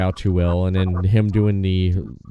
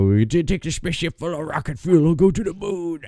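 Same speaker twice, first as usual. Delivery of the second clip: wrestling promo voice; 7 semitones higher than usual. Retold or imitated. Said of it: "talking about Macho Man and Ultimate Warrior".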